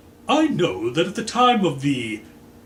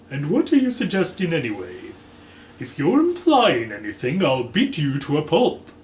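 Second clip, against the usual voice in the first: angry threat; 4 semitones higher, 5 dB louder than usual. Acted. Green threatens Scarlet angrily.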